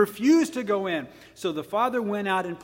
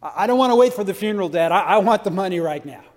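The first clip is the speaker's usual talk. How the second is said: louder, fast, rude demand; brash disrespect; 7 dB louder, faster than usual. Retold or imitated. Younger son demanding inheritance from dad, brash. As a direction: blurt it out like a greedy son. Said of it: "pretty disrespectful".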